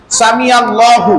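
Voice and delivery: আল্লাহু drawn out slowly and clearly; slow model recitation. Shown as a demonstration. Preacher teaching the phrase piece by piece, slow. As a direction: pace it out word by word like a teacher. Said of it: "এরপর আছে লিমান হামিদা".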